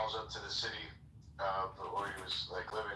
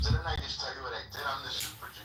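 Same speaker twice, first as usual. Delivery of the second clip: raised, louder indignant insistence; indignant super Jew; 4 semitones higher, 4 dB louder than usual. Retold or imitated. Storyteller voicing the pious man insisting to the judge, raised and indignant. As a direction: remind him who you are, offended. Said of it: "He goes".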